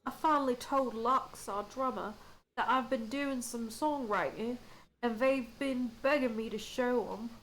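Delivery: put-on light Australian accent, relaxed and chatty; a hint of an Aussie bloke sharing band news; the speaker's accent. The musician chats about his songs in a light Aussie accent. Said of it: "Klaus's accent".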